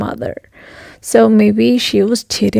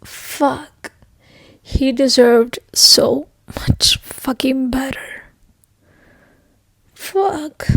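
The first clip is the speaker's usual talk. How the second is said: soft, breathy grief; grieving a character she loved; heartbroken; 2 semitones higher, 3 dB quieter, slower than usual. Real, not acted. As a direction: whisper it like it hurts.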